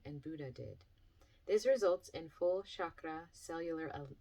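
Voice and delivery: measured, clearly phrased workbook reading; reading aloud. Acted. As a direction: read it to listeners like an instructional chapter. Reads workbook chapter aloud.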